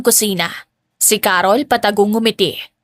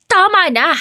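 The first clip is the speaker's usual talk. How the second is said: shout; 8 semitones higher than usual. A narrator's reading. Stepmother yelling at the girl to stop, shouting. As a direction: cut her off with a yell. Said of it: "Sigaw ni Carol".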